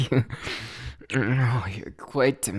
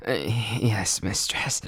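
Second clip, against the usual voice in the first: softer, playfully obedient; mock submissive; 5 semitones lower, 3 dB quieter, much slower than usual. Lover teasing partner by calling her mistress, mock obedience. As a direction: play along with a teasing hush. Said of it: "what do you mean too nonchalant?".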